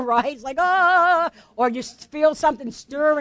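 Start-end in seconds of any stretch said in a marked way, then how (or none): 0.6-1.3 drawn-out "ah" of discomfort. Acted. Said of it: "head for the back door".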